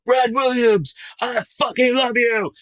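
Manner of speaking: high, loud fan yell. Retold or imitated. Audience guy yells love at Brad, loud and high. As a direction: shout it like a fan in the crowd.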